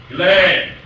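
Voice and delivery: measured, declaiming verse reading; poem recital. Shown as a demonstration. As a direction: read it out as a proud declamation. Lecturer reads famous Brooke poem.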